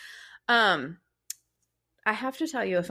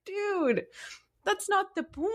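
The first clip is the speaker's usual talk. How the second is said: high-pitched exasperated protest; squeaky mock exasperation at husband; protest, pitched right up; 12 semitones higher than usual. Retold exasperated reply to husband.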